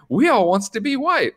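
high-pitched mock outrage; imitated angry rant. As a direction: build to a squealed punchline, hamming up the anger. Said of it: "Hooper's getting angry and angry and angry".

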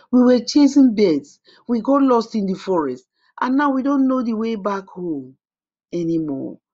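put-on high, loud, eager children's voice; eager boys. A narrator's reading. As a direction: blurt it out eagerly. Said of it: "replied with enthusiasm".

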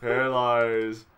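very slow, solemn mock eulogy; mock epitaph. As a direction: read it off like a gravestone. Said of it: "put that on your tombstone".

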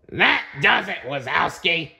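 a touch of monster anger; growled. Acted. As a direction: snap it like a threat. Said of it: "Floz growled".

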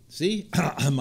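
clearing a throat full of pollen; while gargling. Real, not acted. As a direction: talk through a gargly throat. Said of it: "I'm gargling now".

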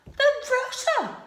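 mock-outraged dragon; shocked gasp. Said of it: "gasped Dragon".

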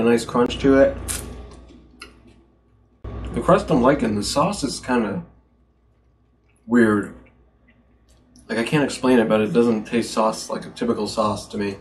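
talking while chewing; speaking between bites; mouth full of pizza. Real, not acted. Seen 0: Bites at +0.4, talks with food-filled mouth, bites again later.

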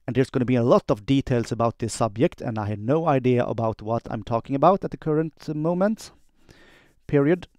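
dictating. Shown as a demonstration. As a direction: dictate clearly, every word spelled out for the machine. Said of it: "quick demo of how I do dictation".

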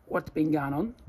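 "What's been going on" run together as one word; casual Aussie "What's been going on", words fused; blended Australian phrase. Shown as a demonstration. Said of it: "más dicho como un australiano".

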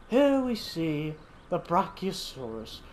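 a hint of a hushed nature-documentary narrator; terrible David Attenborough. Gamer narrating his dinosaurs like a nature film, light documentary narrator. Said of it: "my terrible David Attenborough impression".

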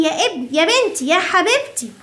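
mock scolding mom. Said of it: "راحت مامي قعدت تزعق وقالت لي".

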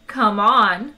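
stern. Acted. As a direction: chide like a strict mother. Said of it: "said Eddie sternly".

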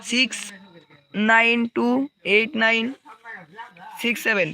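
slow, drawn-out digits with pauses; slowly again. Shown as a demonstration. Streamer slowly repeats the team code for viewers, drawn out. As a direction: read each number slowly and clearly. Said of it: "আস্তে আস্তে তো বললাম, আবারও বলতেছি".

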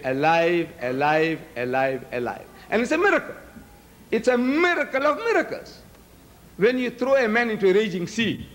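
ordinary talk, nothing marked

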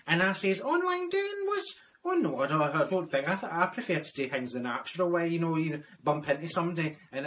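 lightly voiced elderly widow Marjorie; old Scottish lady character. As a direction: play a prim old Scots widow filling in a form.

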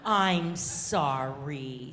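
slow, mildly sighing giraffe; lightly voiced, regretful mother giraffe; sighed apology. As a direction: draw out the sorry with a touch of regret. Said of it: "sighed Missus Giraffe".

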